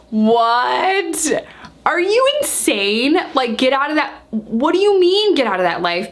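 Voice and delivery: high-pitched, drawn-out disbelief; incredulous. Retold or imitated. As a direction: push the pitch up in indignant astonishment. Retold incredulous reply to Robbie.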